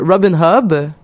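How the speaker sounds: "Robin Hobb" said slowly in the English way, with an aspirated h; slow down and land "Robin Hobb" with English sounds; careful pronunciation. Real, not acted. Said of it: "que je dis comme il faut".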